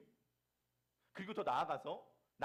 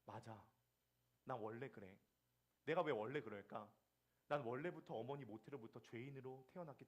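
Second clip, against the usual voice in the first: softer, lower humble apology; meek repentant reply; 3 semitones lower, 5 dB quieter than usual. Pretend. Husband meekly apologizing to his accusing wife, softly. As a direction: gently own it and ask for patience. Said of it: "라고 말한다면".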